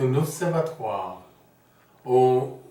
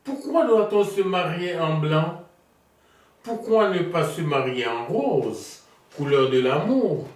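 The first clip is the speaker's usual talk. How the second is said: declaimed musing, building to higher and louder; theatrical monologue; 5 semitones higher, 4 dB louder than usual. Acted. Niki sharing ideas on wedding colours, theatrical recitation. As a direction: pose the questions, then lift the final answer. Reads Niki's monologue on marriage.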